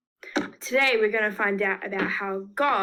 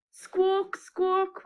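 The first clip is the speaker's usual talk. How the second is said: bird squawk; 9 semitones higher than usual. Shown as a demonstration. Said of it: "help me with some of these sound effects".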